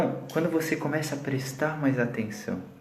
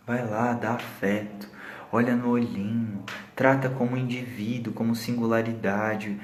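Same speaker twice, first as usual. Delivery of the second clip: tender; 3 semitones lower, 5 dB quieter than usual. Real, not acted. Tender advice about a child.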